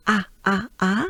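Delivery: "A" as a wide open French "ah", repeated separately; exaggerated open vowel. Shown as a demonstration. Teacher drilling the French letter A, exaggerated. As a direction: open right up on each "A". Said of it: "just exaggerate those vowels".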